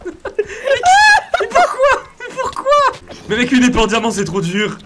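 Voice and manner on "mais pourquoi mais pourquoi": drawn-out whine. Real, not acted. Dragged out despairing question.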